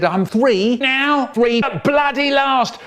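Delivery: put-on high, slow, triumphant kid voice; proud little brother. Little brother boasting he's finally three. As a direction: drag it out like a proud three-year-old. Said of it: "And he said".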